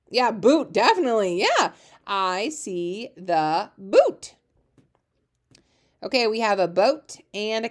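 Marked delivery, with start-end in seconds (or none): 2.1-4.3 stretched out very slowly; slow read-along. Shown as a demonstration. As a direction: read each word slowly for the class. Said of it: "reading the sentence aloud".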